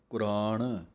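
ਕੁਰਾਨ with a short ਕੁ and a retroflex ending; ਕੁਰਾਨ spoken deliberately with a falling close; careful pronunciation. Shown as a demonstration. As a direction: say ਕੁਰਾਨ as ਕੁ-ਰਾਣ, the ਕੁ clearly voiced. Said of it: "ਕੱਕੇ ਔਂਕੜ ਬੋਲ ਕੇ ਕੁਰਾਨ ਬੋਲਣਾ ਹੈ".

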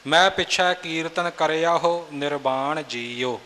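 ਕਰਿਆ ਹੋ with a clear, separate "ho"; correct reading. Shown as a demonstration. Teacher modelling the verse, ਕਰਿਆ ਹੋ pronounced "kar-ia ho". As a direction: read the line sounding the h in ਕਰਿਆ ਹੋ. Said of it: "ਕਰਿਆ ਹੋ ਪਦ ਦੇ ਉਚਾਰਨ ਵੱਲ ਖਿਆਲ ਰੱਖਣਾ".

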